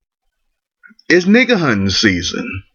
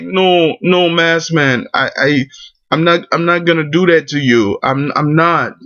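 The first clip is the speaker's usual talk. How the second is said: mock pleading; 4 semitones higher than usual.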